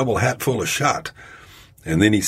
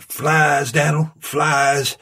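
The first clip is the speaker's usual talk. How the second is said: high call to the frog; 8 semitones higher, much slower than usual. A narrator's reading. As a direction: sing out to the frog. Smiley sings out to frog.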